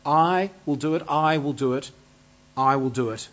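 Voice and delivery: "I" leaned on in each repeat, easing off; stress on I. Acted. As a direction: repeat it steadily, weight on "I". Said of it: "is the emphasis on God's action".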